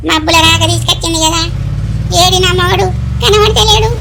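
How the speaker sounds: loud, frantic mock panic; panicked pleading. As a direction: beg for rescue while flying away. Grandma flying on rocket, panicking. (Rocket మీద నుంచి భయంతో అరుస్తూ)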